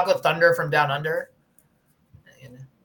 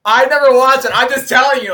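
loud, high-pitched defensive protest; raised voice, insisting on being believed; 8 semitones higher, 8 dB louder than usual. Real, not acted. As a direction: protest your innocence loudly. Teased, defends himself against kink accusation.

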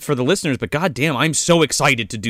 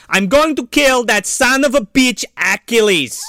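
mild Van Damme voice; 6 semitones higher than usual. Retold or imitated. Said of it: "he's like".

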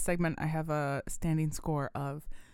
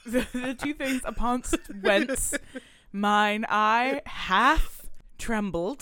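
mock Shakespearean; 3 semitones higher, 3 dB louder, slower than usual. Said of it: "see Shakespeare in the Park".

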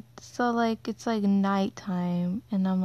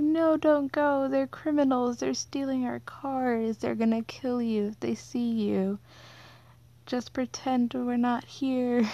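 higher, urgent pleading, partly slowed; retold begging; 4 semitones higher than usual. Stopping her mom going outside, higher retold frightened pleading. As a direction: beg her mother to stay hidden. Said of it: "begging her not to go outside".

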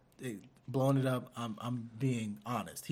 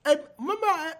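imitating dad; 9 dB louder than usual. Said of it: "Call him back".

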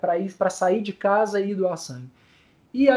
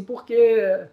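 voice breaking; 4 dB louder than usual. Real, not acted. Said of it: "Peraí que eu vou conseguir".

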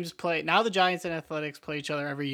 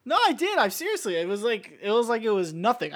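higher-pitched pumped-up gym bro; roided-up bro voice; 5 semitones higher, 3 dB louder than usual. Acted. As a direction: brag like a juiced-up lifter.

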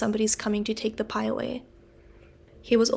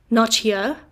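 loud sharp exclamation; exclaimed; 5 dB louder than usual. Acted. Convict exclaiming at news of the bruise, loud. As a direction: exclaim it, startled. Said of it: "exclaimed the man".

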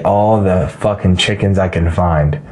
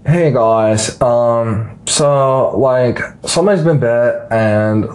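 put-on valley girl news reporter; ditzy valley girl reporter; 2 semitones higher than usual. Shown as a demonstration. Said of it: "let me do the news reporter real quick".

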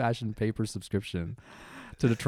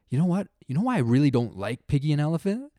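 put-on sassy kid; 4 semitones higher, 3 dB louder than usual. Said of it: "she's like".

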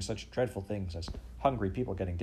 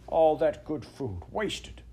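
lamenting; 7 semitones higher, 5 dB louder, much slower than usual. Acted. Old man laments wasted food.

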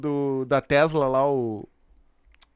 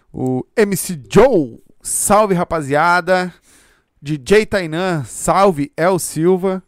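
shoutout calls; 11 dB louder, much slower than usual. Acted. Host reading fan shoutouts.

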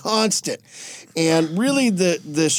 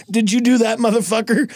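higher, taunting question; mock confrontation; 4 semitones higher than usual. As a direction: challenge him in a hammed-up way. Superman confronting Aquaman, acted.

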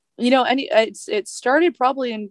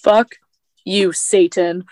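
defiant outburst; 4 dB louder, much slower than usual. Real, not acted. Defiant outburst about brother.

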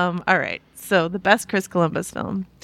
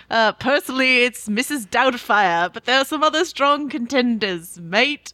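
put-on half Australian half British accent. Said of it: "What accent do I have to do right now".

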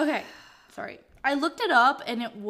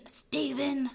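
mock scolding; 4 semitones higher than usual. Mock scolding the absent author.

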